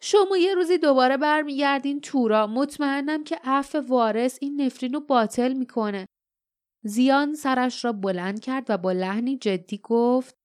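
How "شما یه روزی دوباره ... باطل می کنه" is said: heartfelt cry. Acted. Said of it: "فریاد زد".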